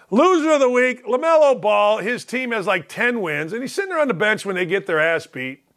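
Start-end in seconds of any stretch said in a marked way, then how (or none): 0.1-2.0 louder, higher award call; award announcement. Pretend. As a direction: announce it like a host.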